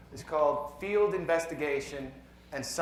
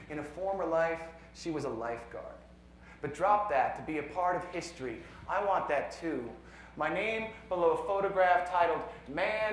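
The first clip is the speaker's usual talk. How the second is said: measured poem reading with deliberate pauses; poetry reading; 2 semitones higher than usual. Acted. Poet reads a science poem to a conference audience, measured poetry reading. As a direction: read it as verse, letting each numbered line land.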